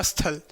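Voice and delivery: teacher imitating a common mispronunciation; wrong pronunciation. Shown as a demonstration. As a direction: drop स्थल low to show the error. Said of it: "ये अशुद्धियाँ हैं".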